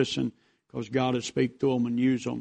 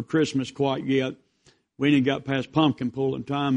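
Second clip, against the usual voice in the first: louder pulpit voice, a little less force; preaching; 4 dB louder than usual. Acted. Pastor admitting to the church he isn't ready for Christmas, preaching. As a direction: keep the sermon going, half confiding.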